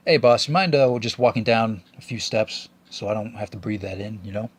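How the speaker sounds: polite request. Retold or imitated. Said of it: "I very politely said".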